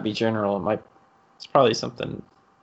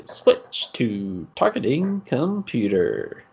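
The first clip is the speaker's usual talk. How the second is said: all chill; slower than usual. Retold or imitated. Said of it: "this dude's just all chill".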